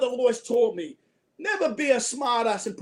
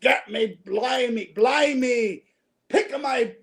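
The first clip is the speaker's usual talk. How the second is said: drawn-out pirate-style exclamations; old sailor talk; slower than usual. Acted. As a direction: imitate an old British sailor. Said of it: "they would say".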